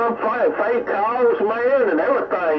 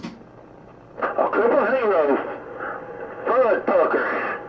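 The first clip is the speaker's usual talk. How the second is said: careful slow say; 2 semitones higher, much slower than usual. Shown as a demonstration. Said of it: "you can get tongue-tied on that".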